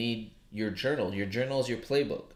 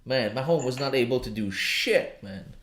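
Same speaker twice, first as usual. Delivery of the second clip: loud, high-pitched rant about the game; worked up; 5 semitones higher, 7 dB louder than usual. Real, not acted. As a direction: get fired up, ranting about the football loss. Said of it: "I'm getting emotional right now".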